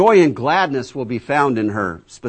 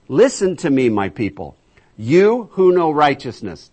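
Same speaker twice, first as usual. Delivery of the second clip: scripture proclamation; 3 semitones higher, 6 dB louder than usual. Acted. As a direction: proclaim it as God calling his people. Reads scripture aloud.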